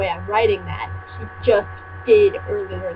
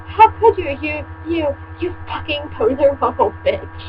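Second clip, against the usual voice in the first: hammed-up accusation, higher; mock shout; 4 semitones higher than usual. Reader voicing Draco yelling at Ebony, mock fury. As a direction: spit it out like a betrayed goth boyfriend. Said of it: "he shouted".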